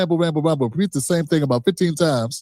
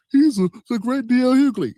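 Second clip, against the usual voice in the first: sarcastic; 5 semitones higher than usual. Acted. Sarcastic praise of rival.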